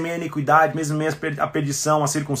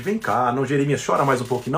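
mock coddling; 5 semitones lower, 3 dB quieter than usual. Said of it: "não é pastoral esse consolo".

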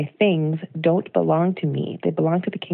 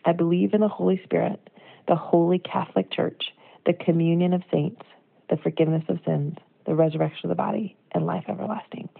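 creed recitation. Acted. Quoting the creed's last lines to listeners, recited. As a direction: lean into each line of the creed. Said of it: "Listen to this".

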